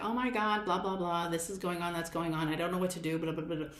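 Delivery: lightly voiced stressed-out client; mock the flustered client rattling on; imitating a client. Coach imitating an overwhelmed client venting, lightly mocking. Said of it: "clients where they're like".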